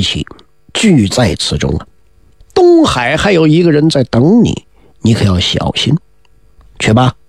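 a hint of a solemn elder warning his pupil; stern old master. 元始天尊 warns 子牙.

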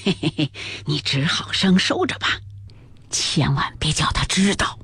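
Jia Lian chuckling. A narrator's reading. Jia Lian begs Ping'er to hide it, fawning low chuckle. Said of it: "贾琏笑道".

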